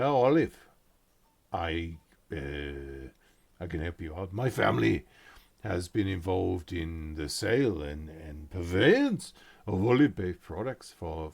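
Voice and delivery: loud, proud merchant with broken grammar; olive seller. Acted. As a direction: boast about the family olive trade. GM holds olive seller NPC voice.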